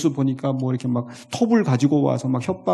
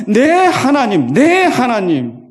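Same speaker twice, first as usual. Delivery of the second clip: impassioned cry; 7 semitones higher, 7 dB louder, much slower than usual. Acted. Preacher cries the psalm.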